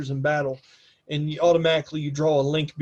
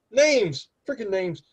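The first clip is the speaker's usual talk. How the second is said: pitched-up exasperation at oneself; real mild frustration, voice jumping higher; exasperated; 5 semitones higher, slower than usual. Real, not acted. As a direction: grumble at a slipped memory. Game master struggled recalling a name.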